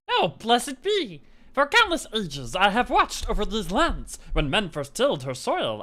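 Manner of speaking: lightly voiced mystical corn; corn spirit voice. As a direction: play the corn as a solemn old spirit. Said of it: "what voice should I do for the corn".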